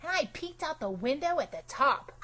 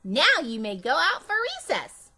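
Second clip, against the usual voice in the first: pretend teacher; 5 semitones higher, 5 dB louder than usual. Pretend teacher dismissing class.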